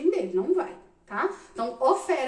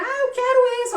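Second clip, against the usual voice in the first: put-on whiny child; 10 semitones higher, 7 dB louder than usual. Kids fighting over Lego.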